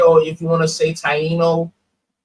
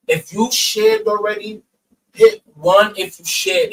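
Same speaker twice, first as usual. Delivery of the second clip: muffled; 3 dB louder than usual. Real, not acted. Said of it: "do I sound muffled".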